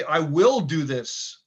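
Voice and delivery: affirmation. Shown as a demonstration. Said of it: "Maybe you say".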